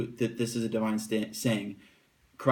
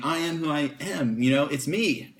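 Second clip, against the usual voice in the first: a light, higher-pitched emphatic I AM; mild mock yell; 3 semitones higher than usual. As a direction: insist on who you are without really yelling. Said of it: "It's like yelling it out and screaming it".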